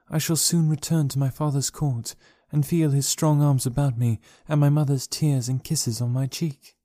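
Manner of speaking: lightly voiced gentle princess. Dejah Thoris speaks tenderly.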